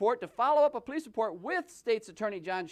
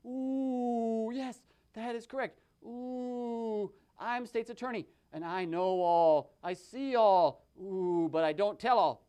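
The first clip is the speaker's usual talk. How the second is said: mysterious attorney voice; 2 semitones lower, slower than usual. Acted. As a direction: boast like an all-knowing official. State's Attorney puppet boasts.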